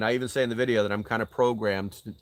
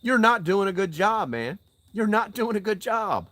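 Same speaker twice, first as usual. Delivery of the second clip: higher, louder scolding; angry, higher-pitched call-out; angry rebuke; 9 semitones higher, 4 dB louder than usual. Real, not acted. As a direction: tell him off with heat.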